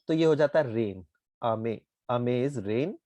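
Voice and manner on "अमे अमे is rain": अमे said slowly with rain's pitch pattern; slow, careful अमे for rain; deliberate rain reading of अमे; rain intonation. Shown as a demonstration. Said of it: "intonation अगर इसका थोड़ा सा different है".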